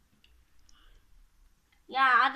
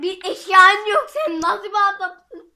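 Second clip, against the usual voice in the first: battle roar; 5 semitones higher, 9 dB louder, slower than usual. Acted. Mocking opponent in battle.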